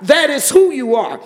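high-pitched cry of worship; exultant praise. Real, not acted. Speaking straight to God in worship, exultantly. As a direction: lift the voice in fervent praise.

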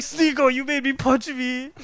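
high, drawn-out mock complaint; Fuzi. Streamer blaming his friend for the punch, high imitated whine. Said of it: "there was a video of Fuzi".

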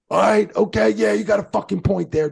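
imitating Shane's comeback. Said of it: "just stopped and looked at him".

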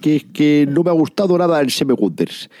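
lightly voiced radio pundit; a hint of pompous broadcaster; Jiménez Los Santos voice. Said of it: "el tonillo Jiménez Los Santos".

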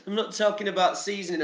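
fast, laughing through it. Real, not acted. Vlogger cracking up at his own seasoning joke. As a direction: giggle as you say it.

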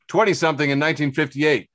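gee-whiz wholesome fifties man; cheery 1950s guy. Acted. Cheery 1950s everyman parody.

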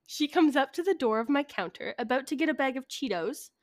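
measured story narration; telling a written tale; story reading. Acted. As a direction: read it aloud with deliberate emphasis. Reads out a prepared story.

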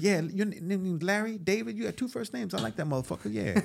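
a hint of a street tough, friendly but threatening; loosely played intimidating character; Crazy Eyes voice. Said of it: "if I had gone in like Chris".

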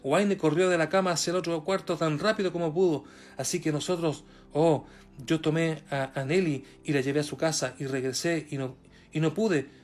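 animated storytelling read, lively rise and fall; testimony read aloud. A narrator's reading. Preacher reads the prophet's testimony to the congregation, animated storytelling. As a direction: read out a dramatic sermon story.

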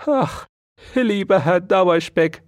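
high plaintive mouse sigh; squeaky little lament; complaining mouse. Acted. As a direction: whine it to the hamster. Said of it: "klagte die Feldmaus".

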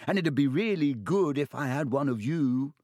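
put-on high, awed young voice; excited first-year gushing to his hero; excited boy. A narrator's reading. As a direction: gush with wonder. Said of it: "shuddering breath of excitement".

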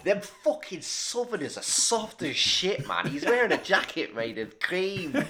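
put-on slow, gruff Northern accent. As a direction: sneer in a broad Northern accent. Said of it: "Northerner mocking the jacket".

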